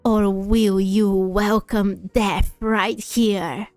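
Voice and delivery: slow, menacing villain. Acted. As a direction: read it as a cold, threatening boss. Reads villain lines.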